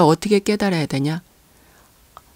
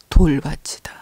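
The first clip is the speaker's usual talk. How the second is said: breathy whispered reveal, lower; hushed answer; 4 semitones lower than usual. Real, not acted. Preacher whispering the answer to his congregation. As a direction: let the answer drop to a whisper.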